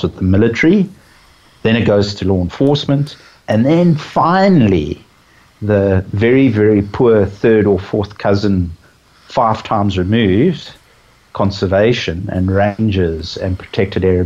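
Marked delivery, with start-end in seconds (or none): 3.5-10.7 dry sarcasm. Real, not acted. Conservationist on who gets military technology last, dryly sarcastic. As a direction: dryly stretch it out for ironic effect. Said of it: "I'm sounding quite sarcastic ... being very dry".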